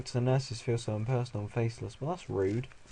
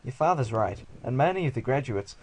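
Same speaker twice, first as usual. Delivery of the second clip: louder, lightly put-on Australian accent; 5 dB louder than usual. Doctor backing up the father, mock Australian accent. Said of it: "people in Japan sound Australian".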